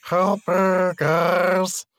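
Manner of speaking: high, slow, bubbling call for help; underwater voice. Pretend. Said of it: "heard your underwater voice".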